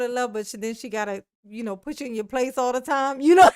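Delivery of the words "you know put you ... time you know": laughter breaking into words; laughing through words. Real, not acted. Teasing a viewer while laughing loudly. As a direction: talk through a loud laugh.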